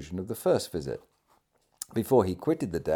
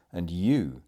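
weight on YOU; YOU drawn out with emphasis; emphatic; 2 semitones lower than usual. A narrator's reading. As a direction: lean firmly on the word YOU. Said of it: "The emphatic manner in which he pronounced".

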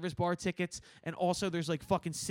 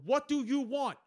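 high-pitched, insistent question; exasperated bartender demanding an order; out loud; 8 semitones higher than usual. Retold or imitated. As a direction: imitate calling out to a drunk customer. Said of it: "out loud, I go".

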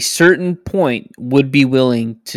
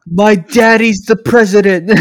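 put-on drunken posh sneer; 4 semitones higher, 4 dB louder than usual. Hunter role-play bragging.

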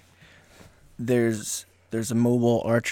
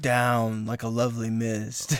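poetry slam recital; 3 semitones lower than usual. Pretend. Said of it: "Poetry slam".

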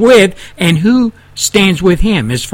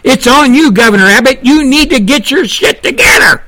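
pissed off; 4 semitones higher than usual. Real, not acted. Host blasting Governor Abbott to fix sanctuary cities, angry and rising. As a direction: lay into him hard, voice climbing. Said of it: "I'm a little pissed off right now".

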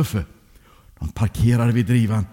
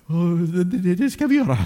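higher, hesitant stammer; stammering promise; 5 semitones higher than usual. Acted. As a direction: stumble over the promise after a telling-off. Chastened boy stammers his promise. (stammande, ivrigt löfte)

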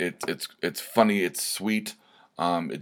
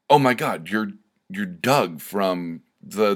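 starstruck fan; 3 dB louder, slower than usual. Retold or imitated. Retold fan recognizing podcast host, excited. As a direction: gasp out the recognition, then slow down.

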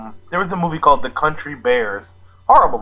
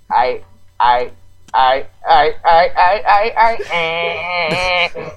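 glitching robot stutter; much slower than usual. Retold or imitated. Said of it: "I'm like".

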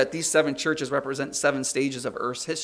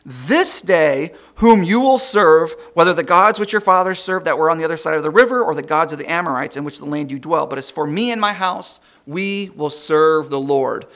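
preached scripture; 7 dB louder than usual. Acted. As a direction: declare it to the congregation. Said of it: "It says".

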